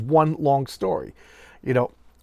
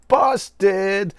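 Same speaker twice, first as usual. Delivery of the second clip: a loud, higher "Busted!" like catching someone out; playful gotcha; 7 semitones higher, 6 dB louder than usual. Real, not acted. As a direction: call it out with glee. Catching the copying father.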